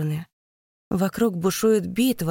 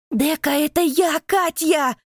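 much higher, louder cry of recognition; desperate shriek; 10 semitones higher, 5 dB louder than usual. A narrator's reading. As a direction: make her remember you. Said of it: "кричит прыгунья".

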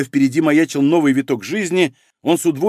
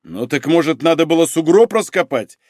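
mildly raised, irritated voice; exasperated bark; 3 semitones higher, 3 dB louder than usual. Acted. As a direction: rise into an understated exasperated bark. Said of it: "в сердцах гаркнул Малинин". (сдержанно гаркнуть в сердцах)

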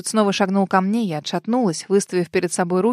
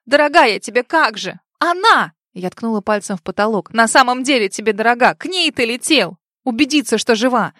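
angry outburst; 2 semitones higher, 4 dB louder than usual. Acted. Jealous outburst at Richard.

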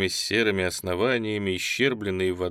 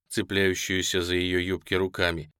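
ordinary delivery, nothing marked

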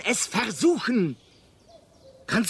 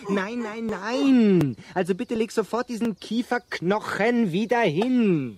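scolding; 3 semitones higher than usual. Acted. Arthur scolding a caveman.

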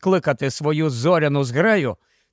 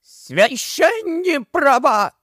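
much higher, slow, cracking cry; voice breaking into a shout; 10 semitones higher, slower than usual. A narrator's reading. Gubl explodes at the mayor, voice cracking into shouting. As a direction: let the voice snap into a yell. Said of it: "Його голос зірвався на крик".

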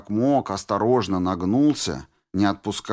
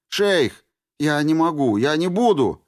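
высоко и громче, с надрывом; кричит, сопротивляясь; отчаянный крик; 7 semitones higher, 5 dB louder than usual. A narrator's reading. (отчаянный отказ)

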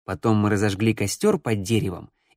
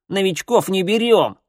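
put-on higher, sharp boyish objection; indignant, raised-pitch refusal; dismissive snort; 8 semitones higher, 4 dB louder than usual. A narrator's reading. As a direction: reject the newcomer with scorn. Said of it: "фыркнул рыжеволосый парень".

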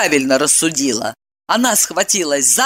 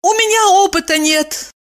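saddened; 12 semitones higher than usual. A narrator's reading. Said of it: "огорчилась она".

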